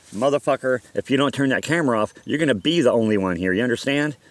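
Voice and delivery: acted-out pissed-off ultimatum; really pissed. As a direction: lay down a threat, moderately heated. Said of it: "now I'm really pissed".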